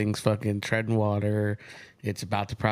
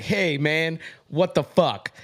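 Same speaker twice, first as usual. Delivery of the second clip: mock exasperated sales guy; 6 semitones higher, slower than usual. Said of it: "that sales guy's like".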